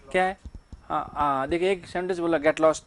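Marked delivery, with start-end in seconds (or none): 2.4-2.8 rude command. Shown as a demonstration. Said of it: "order का भाव है इसमें".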